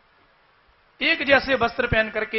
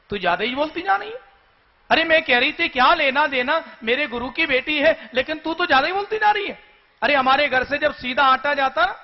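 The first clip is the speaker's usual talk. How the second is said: higher, fast, furious scolding; angry rant; 5 semitones higher than usual. Acted. Sharmishtha, enraged, berating Devayani in a high, rapid rant. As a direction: tear into her with rising anger. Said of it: "क्रोध में आकर के कहा".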